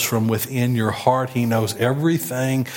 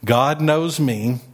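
GOD knows me, drawn out slowly; slow model line; 3 semitones higher, slower than usual. Shown as a demonstration. Preacher modelling the line for the church to repeat. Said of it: "repeat it with me".

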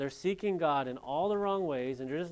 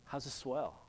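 put-on California surfer accent; 7 dB quieter than usual. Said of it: "like, the real California surfer".

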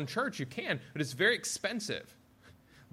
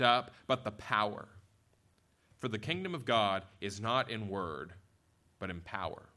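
scripture reading; 3 semitones lower than usual. A narrator's reading. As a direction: read the verse out solemnly with weighted key words. Reads the scripture text aloud.

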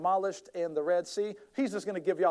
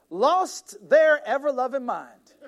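dramatic build; 7 semitones higher, 8 dB louder, slower than usual. Retold or imitated. Child tantrum retold in sermon.

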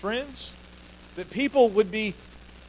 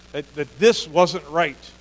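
slow emphasis; 4 dB louder, much slower than usual. Real, not acted. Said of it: "emphatic slow point".

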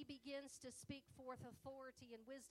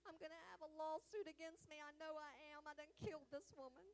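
panicked thought; 5 semitones higher, 7 dB louder than usual. Retold or imitated. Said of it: "And I thought".

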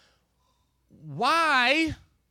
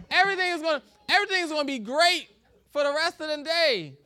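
rising excitement; 4 semitones higher, 4 dB louder, faster than usual. Acted. Preacher building up a promise.

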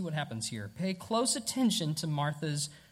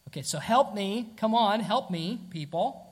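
louder, impatient plea for help; exasperated demand; 3 semitones higher, 4 dB louder than usual. Retold or imitated. Preacher imitates an overwhelmed person's demand, louder and impatient. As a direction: push it, fed up. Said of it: "followed up by that demand".

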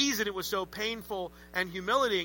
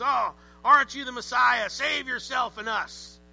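mocking thief sounding like a pirate; pirate-like criminal; 4 semitones higher, 4 dB louder than usual. Preacher's criminal voice slipping into pirate, mock sneer. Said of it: "I sound more like a pirate".

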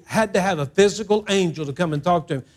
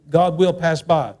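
slow call and response; slower than usual. Shown as a demonstration. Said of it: "say that with me".

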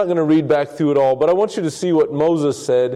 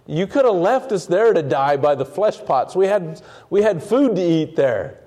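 a lightly whined mock grumble, pitched a bit higher; a touch of a whiny Israelite moaning at Moses; whiny complaint; 4 semitones higher than usual. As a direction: play the sulky complainer whining for the old days. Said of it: "they're whiny and they're complaining".

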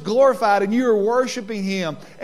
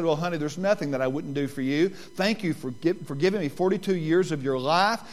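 tender reply. Retold or imitated. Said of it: "And I said".

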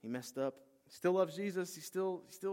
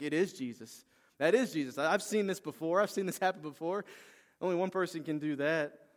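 excited realization; 4 semitones higher, 6 dB louder than usual. Retold or imitated. Peter realizes it is Jesus.

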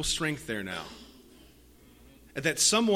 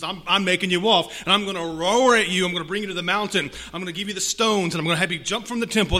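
louder, pushing and fast, a taunting roar; mock roaring threat; 3 dB louder, faster than usual. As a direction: taunt him like a lion roaring to intimidate. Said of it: "That's his roaring to intimidate".

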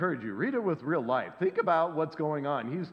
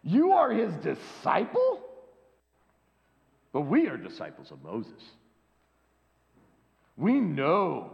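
reviling. Acted. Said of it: "They reviled him".

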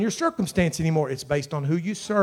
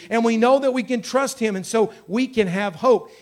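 pitched-up, driving sermon delivery; fervent preaching; 5 semitones higher, 3 dB louder than usual. Real, not acted. Preacher assuring the congregation of hope, fervent preaching. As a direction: preach it with rolling conviction.

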